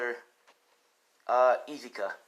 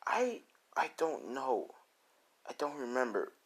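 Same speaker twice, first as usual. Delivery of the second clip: put-on confused boy; 6 dB quieter than usual. Deku asked his name, confused. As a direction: stretch the words out uncertainly.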